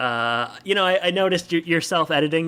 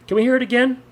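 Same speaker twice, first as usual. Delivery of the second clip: put-on high, louder boyish begging; childlike pleading; 10 semitones higher, 4 dB louder than usual. A narrator's reading. Griff begging friend to repeat her line, childlike pleading. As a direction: plead like an eager kid, pitched way up. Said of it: "Griff pleads, sounding much younger".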